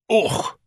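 high, gurgling "ugh"; gurgled grunt. A narrator's reading. Son poked with a book corner, gurgling. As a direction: grunt as if jabbed in the stomach. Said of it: "Ignatius gurgled".

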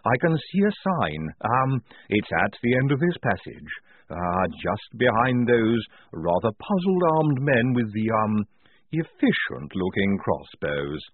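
slow, halting figure's voice; hesitant Igorina. Acted. Igorina warning of armed men ahead, hesitant. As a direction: stretch it out between ums.

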